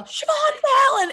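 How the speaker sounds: high, loud, drawn-out holler; retold full-out shout; yell. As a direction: yell your own name across a stadium. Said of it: "And I yell".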